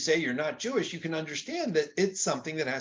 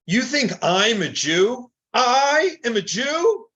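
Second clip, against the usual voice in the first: higher, louder, slow incredulous question; rhetorical question; 8 semitones higher, 7 dB louder, slower than usual. Shown as a demonstration. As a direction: toss it back as if the idea were absurd. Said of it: "but with a rhetorical note and saying".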